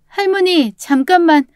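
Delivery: high, urgent plea to stop; pleading apology. Acted. Roommate begging grandmother to stay, pleading. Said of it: "용서를 빌며 할머니를 붙잡으려는".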